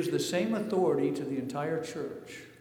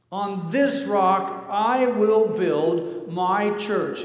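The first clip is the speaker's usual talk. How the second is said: emphatic quote; 3 semitones higher, 7 dB louder, much slower than usual. Acted. Quoting Jesus again, now emphatic.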